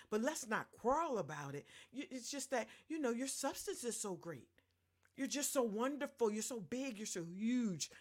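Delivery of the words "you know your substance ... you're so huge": mock flattery, laying it on thick; sarcastic praise, overdone. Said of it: "I'm being sarcastic now".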